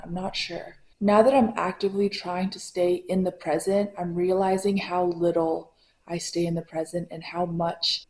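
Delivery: lisping with aligners in; lisp from Invisalign. Real, not acted. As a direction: talk through clear aligners. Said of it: "Excuse my lisp".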